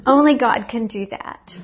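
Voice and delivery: laughing with delight. Real, not acted. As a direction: laugh through the words. Laughs heard.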